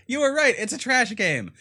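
high, loud, overblown surrender; mock defeated admission. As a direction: wail the admission in exaggerated defeat. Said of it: "and I'm like".

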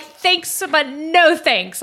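high, slow dismissive thanks but no thanks; drawn-out breezy turn-down; mock polite refusal. Turning down eager clients with a slow high brush-off.

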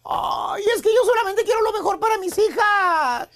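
hammed-up tearful whine, half sobbing; mock tearful plea; mock crying mother-in-law. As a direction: play the weepy victim mother-in-law, overdone. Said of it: "con lágrimas en los ojos".

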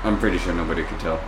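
talking with teeth clenched shut; words squeezed through closed teeth; through gritted teeth. Shown as a demonstration. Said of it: "you're gonna still do it with your teeth?".

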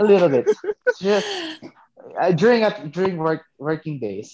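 hammed-up British accent. Shown as a demonstration. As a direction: repeat it in mock British for laughs. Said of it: "May, may British accent ka na?".

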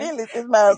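"vengeance" said as "village"; mispronounced quote. Retold or imitated. Granddaughter quoting grandmother's verse, "vengeance" said as "village". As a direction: repeat the slip, "vengeance" becoming "village". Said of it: "she said it three or four times".

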